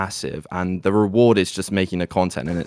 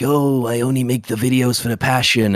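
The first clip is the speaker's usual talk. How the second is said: higher, louder fake-earnest voice; mock sincere voice; 5 semitones higher, 4 dB louder than usual. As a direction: play a fake humble YouTuber. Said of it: "I'd be lying ... being like".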